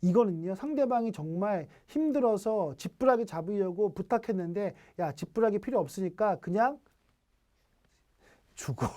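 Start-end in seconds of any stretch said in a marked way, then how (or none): 5.0-8.9 cold cutoff. Retold or imitated. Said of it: "어, 무섭다".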